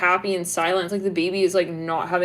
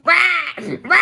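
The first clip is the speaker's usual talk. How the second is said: put-on baby crying; 9 semitones higher, 5 dB louder than usual. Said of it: "like a baby who was, like, crying".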